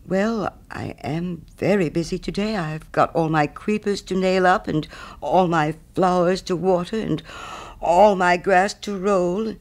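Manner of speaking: lightly voiced, reluctant Hans; apologetic little fellow listing his chores; hesitant little Hans. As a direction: make a mild, halting excuse, stretching the last task. Hans in the story.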